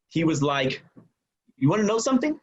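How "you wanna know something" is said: higher-pitched, mildly annoyed challenge; mild annoyance. Retold or imitated. Son confronting the visitor, mildly annoyed. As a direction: imitate an irked son squaring up. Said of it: "annoyed and a little angry".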